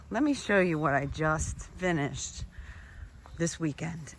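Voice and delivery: panting between words after garden work; winded, catching breath while talking. Real, not acted. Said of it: "I'm out of breath again".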